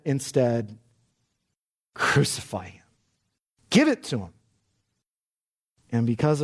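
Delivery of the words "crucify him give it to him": low then lifted, jeering crowd voice; the crowd demanding his death, jeering; mocking crowd. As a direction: sneer it like the mob.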